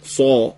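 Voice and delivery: سا with the voice dropped into the throat; thick, throaty s. Shown as a demonstration. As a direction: say سا dark and heavy from the throat. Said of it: "صداتونو بندازید تو گلوتون".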